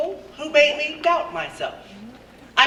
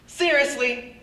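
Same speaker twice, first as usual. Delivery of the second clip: sassy clapback; 3 semitones higher than usual. Retold or imitated. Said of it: "I wish I was confident enough".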